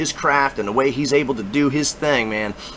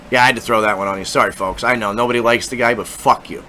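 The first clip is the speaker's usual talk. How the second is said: normal talking voice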